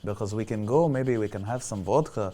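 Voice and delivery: a lightly put-on Russian accent, wooing; mild mock Russian accent, smooth and flirting. Host in a Russian accent woos Anastasia away from Sandeep, lightly put-on Russian accent. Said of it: "here is my Russian accent".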